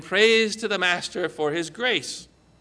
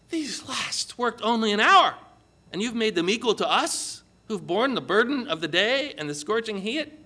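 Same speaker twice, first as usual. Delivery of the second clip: mildly aggrieved, slightly raised voice; grumbling complaint; 3 semitones higher than usual. Acted. Sunrise workers to the vineyard owner, grumbling. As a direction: complain with a touch of indignation. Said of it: "they grumbled at the vineyard owner".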